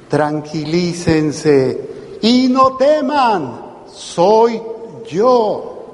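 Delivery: calm reassurance. Retold or imitated. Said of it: "Jesús les dijo".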